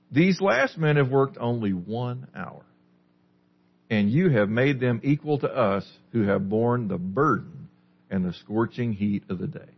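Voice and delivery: slow, sour grumbling read. Shown as a demonstration. Pastor reading the grumbling workers, mildly sour and slow. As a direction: let the workers' complaint sound a little bitter. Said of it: "their grumbling sounds like this".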